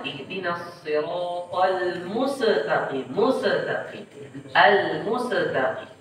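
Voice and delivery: slow "mustaqim" with an extra vowel after the s; "mustaqim" with qalqalah wrongly put on sin; bouncing sin error. Shown as a demonstration. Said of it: "membunyikan sin dengan qalqalah".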